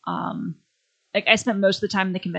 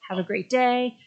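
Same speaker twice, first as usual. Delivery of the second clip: nice easygoing guy; 5 semitones higher than usual. Retold or imitated. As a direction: sound breezy and accommodating. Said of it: "he's nice, easygoing, laissez-faire".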